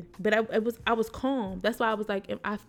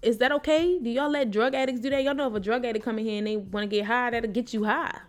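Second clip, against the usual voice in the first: raised, disbelieving questions; incredulous; 3 semitones higher than usual. Retold or imitated. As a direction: ask it in shocked disbelief. Incredulous reply to nurse.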